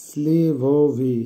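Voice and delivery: স্লিভোভি slowly, as "slee-voh-vee"; slow teacher's model of স্লিভোভি, each vowel drawn out; pronunciation demo. Shown as a demonstration. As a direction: stretch স্লিভোভি into three clear syllables, "slee-voh-vee". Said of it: "উচ্চারণ হবে".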